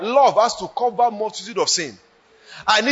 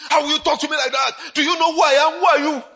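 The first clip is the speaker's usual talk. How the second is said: mock indignant quarrel; 5 semitones higher, faster than usual. Mocking a carnal quarrel.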